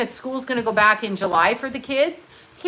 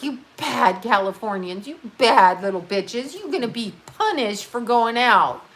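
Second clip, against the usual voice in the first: mock scolding governor. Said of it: "scolding us, like".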